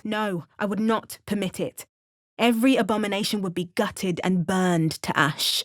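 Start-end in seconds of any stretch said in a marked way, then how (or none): 2.4-5.6 furious threat. Acted. Threat against abominations.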